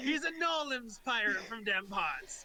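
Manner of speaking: put-on pirate voice with Southern accent. Voicing a pirate who says where he is from: Southern-sounding pirate voice. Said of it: "He's not a Southern pirate".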